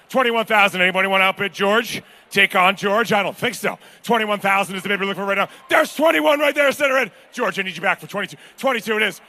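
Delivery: steady auctioneer patter, rushing some lines and stretching others; auction bid calling. Acted. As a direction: keep the bids rolling.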